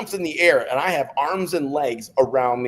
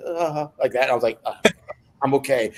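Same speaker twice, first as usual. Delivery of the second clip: mock faint. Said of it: "acted like I was about to faint".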